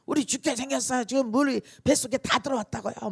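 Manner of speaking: high-pitched frantic yelling; acted panic, high and urgent all through; panicked disciples. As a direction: cry out that disaster is upon you. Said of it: "막 이렇게 했을 거 아니겠어요".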